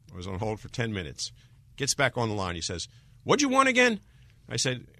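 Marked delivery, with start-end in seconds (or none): 3.2-4.0 loud, much higher impatient demand; impatient clerk. Retold or imitated. Senate clerk back from hold, loudly impatient. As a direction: fire it back like an irritated clerk.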